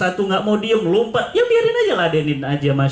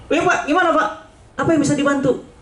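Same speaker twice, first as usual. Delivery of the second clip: higher, over-eager helper on the phone; mock-servile answer to the boss; eager, fawning phone greeting; 6 semitones higher than usual. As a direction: gush at the important caller. Eager answer to known caller.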